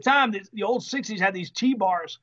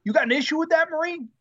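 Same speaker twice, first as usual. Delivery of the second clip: pitched-up mock confrontation; confrontational order; 5 semitones higher, faster than usual. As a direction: order the new guy around, voice raised in pitch. Acted gunner bullying the new guy.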